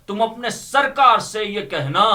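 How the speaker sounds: normal talking voice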